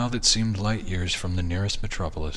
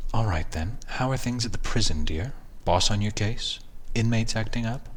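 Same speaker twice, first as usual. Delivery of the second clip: snide; 4 semitones higher than usual. Acted. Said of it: "I'm sorry about the snideness".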